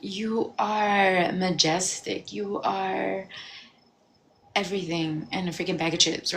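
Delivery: slow, deliberate affirmations; self-affirmation. Retold or imitated. To herself in the mirror, slow sincere affirmations. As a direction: speak each line as if convincing yourself. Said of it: "I started affirming to myself".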